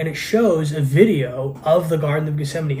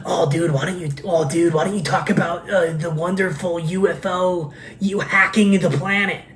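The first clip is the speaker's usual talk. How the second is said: mocking commenters; 3 semitones higher than usual. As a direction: needle him like a pestering online commenter. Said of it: "They say these things".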